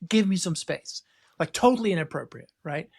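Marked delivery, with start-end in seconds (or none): 0.1-1.0 mild retold angry warning; retold snap. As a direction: replay losing it at the guy in the queue, half-scale. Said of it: "I just snapped".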